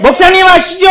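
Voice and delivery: loud, high cheeky recitation; reminding congregant. Pretend. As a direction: tease the pastor back. Imagined congregant.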